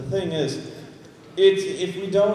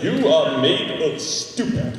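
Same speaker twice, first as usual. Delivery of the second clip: imitating George Takei; 3 semitones lower, slower than usual. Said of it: "he was like".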